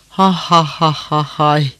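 slow, spelt-out ha-ha laughter; acted belly laugh. A narrator's reading. Soldiers joining their khan's laughter, acted belly laugh. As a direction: laugh along as the soldiers, slowly and theatrically. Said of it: "Yerlerde yuvarlanarak güldüler".

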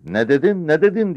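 high, loud incredulous shout; shouted demand. A narrator's reading. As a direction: fire the question at full voice. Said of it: "diye bağırdı yüzbaşı". (öfkeyle bağırarak soran yüzbaşı)

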